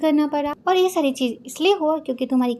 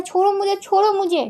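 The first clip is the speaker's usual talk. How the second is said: struggling protest; 5 semitones higher than usual. Retold or imitated. Pinned to wall, struggling.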